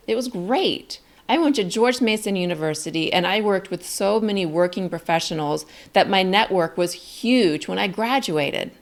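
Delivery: upbeat and lively, the tune lifting upward; excited rising inflection. Shown as a demonstration. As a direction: share it like great news, voice going up. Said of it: "It went up".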